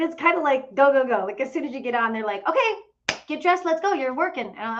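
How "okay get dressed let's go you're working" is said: higher, brisk imitation of rushing staff; lightly voiced bossy crew boss; mock bossy staff. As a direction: hurry them along like busy crew. Staff rushing new crew aboard.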